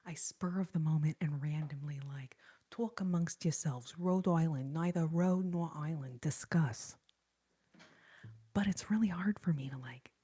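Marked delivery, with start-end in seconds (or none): 2.7-7.0 put-on New Jersey or New York accent, lightly done; Linda Richmond. Streamer tossing out a random sketch line to viewers, New York-area accent. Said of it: "Really, that's Linda Richmond from S N L".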